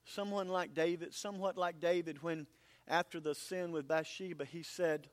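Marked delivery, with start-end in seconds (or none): none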